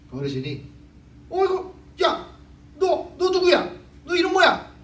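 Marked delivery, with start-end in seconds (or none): 1.3-4.7 much higher and louder, hammed-up elder yelling; an old man confronting a rude child, voice shooting up; imitating an outraged neighborhood elder; elder's angry shout. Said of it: "그랬어요".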